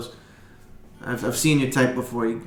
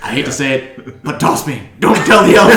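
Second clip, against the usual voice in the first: Gimli; 3 semitones higher, 10 dB louder than usual. Retold or imitated. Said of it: "It's like Gimli".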